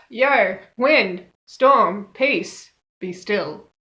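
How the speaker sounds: mildly grumpy, just-woken command; loud separate words, easing off at the end. Retold or imitated. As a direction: order it about like someone woken from a nap. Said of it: "wakes up grumpily".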